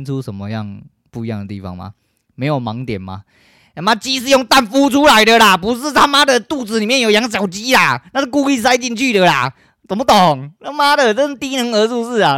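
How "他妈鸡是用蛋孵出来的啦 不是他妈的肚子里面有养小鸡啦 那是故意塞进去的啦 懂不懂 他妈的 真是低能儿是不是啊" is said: exasperated rant. Real, not acted. Host ranting at the daughters.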